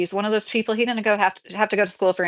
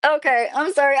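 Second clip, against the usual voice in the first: high, loud laughing apology; laughing uncontrollably; 9 semitones higher, 3 dB louder than usual. Real, not acted. Streamer cracking up at a viewer's comment, laughing. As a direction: apologize through a real laughing fit. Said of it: "I need to not laugh so loud".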